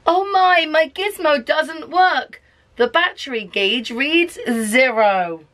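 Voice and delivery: high, slow, fretful little alien; a hint of a panicking alien; worried alien. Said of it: "the alien says".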